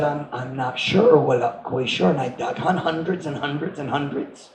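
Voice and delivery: put-on old grandpa tree. Old grandpa tree answers softly.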